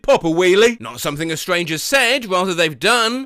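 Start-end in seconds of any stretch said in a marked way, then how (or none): 0.0-0.8 loud shout at the unicyclist; shouted taunt. Retold or imitated. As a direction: heckle from the roadside. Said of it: "a guy shouted".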